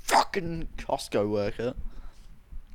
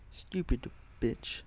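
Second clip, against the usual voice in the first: muttered insult; 3 semitones higher, 8 dB quieter, much slower than usual. Retold or imitated. Retelling cursing out the clerk.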